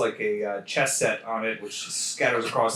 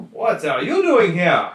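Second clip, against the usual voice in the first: loud, raised-pitch demand; startled guard's challenge; 6 semitones higher, 6 dB louder than usual. Acted. Armored guard spots an intruder at his door, startled loud challenge.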